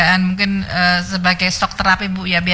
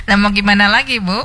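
laughing; 3 semitones higher than usual. Real, not acted. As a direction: answer through a real laugh. Host laughs at caller's remark.

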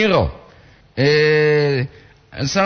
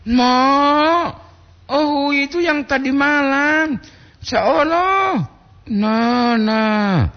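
raised, emphatic intonation without anger; high intonation, not angry; 10 semitones higher, much slower than usual. Real, not acted. Host reading a comment, pitched high but not angry. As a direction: lift the pitch high but keep it friendly. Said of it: "bukan marah poli itu, Mbak intonasi".

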